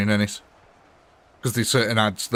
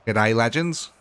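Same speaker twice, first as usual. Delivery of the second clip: a deliberately weak Australian accent greeting; bad Australian accent; slower than usual. Shown as a demonstration. Greeting viewers after joking about a bad Australian accent, in a bad Australian accent. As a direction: toss off a hammy Australian hello. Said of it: "that is not a good Australian accent".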